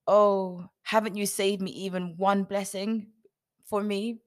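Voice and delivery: loud, aggrieved outburst; indignant exclaiming. Acted. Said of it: "Esau exclaimed".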